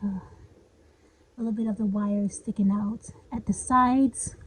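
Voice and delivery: breathless, panting through words; out of breath. Real, not acted. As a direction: talk while winded. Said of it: "I'm out of breath".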